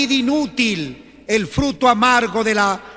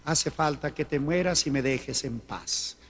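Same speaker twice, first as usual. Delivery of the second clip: mock reply; 7 semitones lower, 11 dB quieter than usual. Joking imagined neighbour reply.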